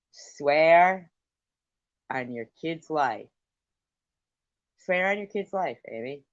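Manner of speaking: loud, high angry insistence; furious demand. Real, not acted. Streamer furiously insists her rival swear on her kid's life. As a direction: keep hammering the demand.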